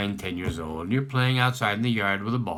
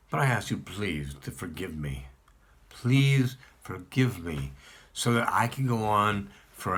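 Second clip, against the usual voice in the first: heartfelt prayer. Acted. A worshipper begs God for forgiveness on Rosh Hashanah, pleading.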